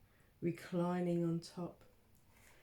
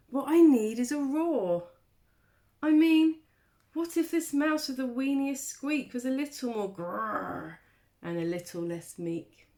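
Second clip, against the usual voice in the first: higher, louder plucky mouse; eager mouse voice; 5 semitones higher, 8 dB louder than usual. Acted. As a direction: play the tiny mouse fired up. Mouse voiced in picture book.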